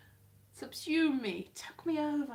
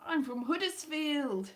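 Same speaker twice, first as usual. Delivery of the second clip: put-on slow, higher, hinted northern accent; attempted northern accent; 4 semitones higher, 4 dB louder, slower than usual. Vlogger posing as Jodie Whittaker, attempted northern accent. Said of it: "I could do a northern accent".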